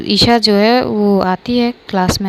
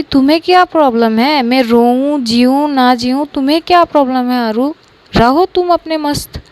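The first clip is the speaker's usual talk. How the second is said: higher, hurt, snapping back; hurt angry outburst; 4 semitones higher, 3 dB louder than usual. Acted. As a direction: lash out at the friend, hurt. Upset Isha lashes out. (दुखी और गुस्से में फटकार)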